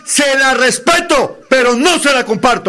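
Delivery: high-pitched vehement argument; heated, shouty insistence. Real, not acted. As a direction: press each phrase home in a heated debate. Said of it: "¿Pero a gritos?".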